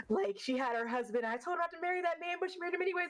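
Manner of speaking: imitated old Alabama lady, climbing high toward the end; Miss Tuttle. Old customer grumbling about her sister's marriage, imitated Alabama accent. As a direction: put on an Alabama accent, rising into high, quick fussing. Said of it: "she had a little accent like this".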